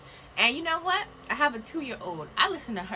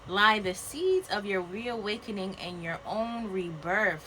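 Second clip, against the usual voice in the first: solemn card reading; slower than usual. Acted. Reads card slowly, solemn.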